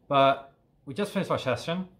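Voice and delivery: panting between words; breathless after a hard workout; out of breath. Real, not acted. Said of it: "I'm a little bit out of breath".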